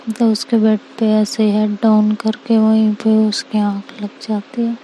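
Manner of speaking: ordinary delivery, nothing marked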